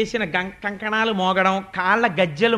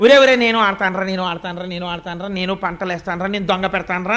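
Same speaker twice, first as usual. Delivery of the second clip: put-on excited child calling; 2 semitones lower, 3 dB louder than usual. Child begging to join game.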